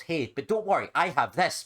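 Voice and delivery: a hint of a theme park guide; mock ride host. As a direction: play the ride host with a grin. Voicing a ride character.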